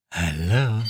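a spooky doll speaking without moving its mouth; lightly voiced uncanny doll; creepy doll. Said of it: "sagt sie, auch wenn der Mund".

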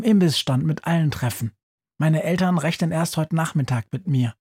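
put-on a boy reassuring his friend, keen and quick; eager boy. Boy telling the mouse to rest while he follows, lightly voiced eager boy.

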